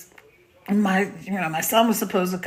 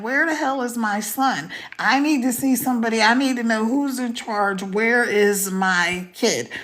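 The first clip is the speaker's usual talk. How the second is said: indignant demand, acted but not shouted; retold outrage. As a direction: retell a mother demanding answers, each word pressed. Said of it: "by now I'm going off".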